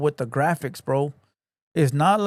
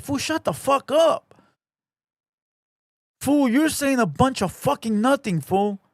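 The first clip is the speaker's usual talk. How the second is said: retold shut-down; 8 semitones higher than usual. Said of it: "I'd be like".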